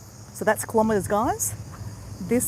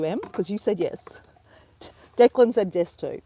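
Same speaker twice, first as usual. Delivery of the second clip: a secret whisper to one person. Real, not acted. Whispering privately to a viewer who said yes. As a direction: lean in and share a secret.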